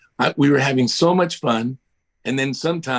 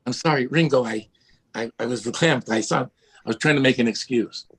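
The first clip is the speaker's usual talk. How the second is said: Woody Allen. Retold or imitated. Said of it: "sort of like Woody Allen".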